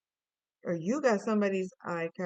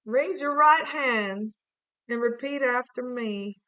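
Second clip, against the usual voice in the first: oath giver; 3 semitones higher, 5 dB louder than usual. Pretend. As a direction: swear the viewer in like a court clerk. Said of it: "it's like an oath".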